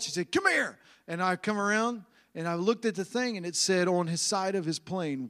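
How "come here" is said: retold yell. Wife calling the preacher over to the sign, retold yell. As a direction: imitate a yell with raised pitch only. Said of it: "she, she yelled".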